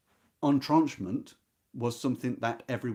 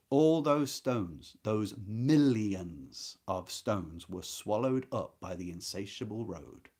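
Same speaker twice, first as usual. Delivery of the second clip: drawn out very slowly, lingering on each phrase; slow savouring reread; slower than usual. Shown as a demonstration. Teacher rereads a line for students, very slow and weighty. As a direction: let each word sink in, slowly. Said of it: "Just listen to how the pebbles are described again".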